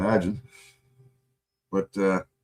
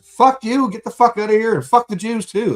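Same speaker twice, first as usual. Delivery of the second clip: 更高更响的复述喊叫; 高声吼出，模仿当时对人怒喝; retold yell; 11 semitones higher, 6 dB louder than usual. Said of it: "I yelled at them yesterday".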